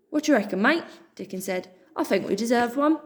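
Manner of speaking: a hint of a chummy Cockney dog; friendly terrier. Dickon offering Pip tea, lightly voiced friendly.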